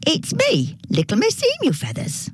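put-on high-pitched girl announcing herself; little girl character. A narrator's reading. Little girl answers grandma at the door, high girlish call.

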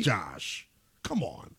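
hushed, breathy whisper. Real, not acted. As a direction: lean in and whisper it. Sudden whisper to cohost.

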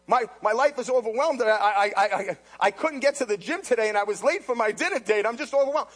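lightly voiced self-pitying TV watcher, stammering; a hint of a fussy complainer, stumbling over I; whiny mock complainer. Preacher mocking a TV watcher who claims to be overwhelmed, lightly whiny. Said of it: "say they're overwhelmed".

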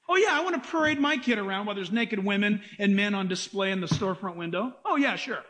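dry mock willingness; mock-keen, deadpan sarcasm; sarcastic agreement. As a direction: agree as if it were perfectly sensible. Sarcastic answer to absurd vacation idea.

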